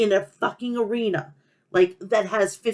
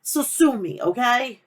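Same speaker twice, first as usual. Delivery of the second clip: Long Island accent; 3 semitones higher than usual. Real, not acted. New Yorker excusing a tangent, playful Long Island accent. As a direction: lean into the Long Island accent, defiantly unapologetic. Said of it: "I know I sound like Fran Drescher".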